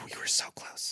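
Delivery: breathy whispered aside. Real, not acted. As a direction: whisper it, disappointed. Whispered after near-miss roll.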